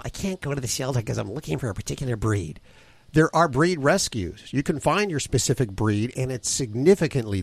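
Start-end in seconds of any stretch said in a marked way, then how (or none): 0.0-2.6 quoting a typical buyer. Retold or imitated. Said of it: "this is what I hear all the time".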